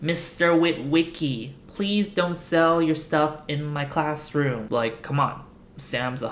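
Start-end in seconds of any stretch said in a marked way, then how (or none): 0.0-4.7 stern teacher. Retold or imitated. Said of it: "The teacher's all like".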